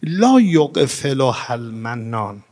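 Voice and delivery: slow, tender recital of the Arabic; gentle Arabic quote, drawn out slowly; gentle recitation. Acted.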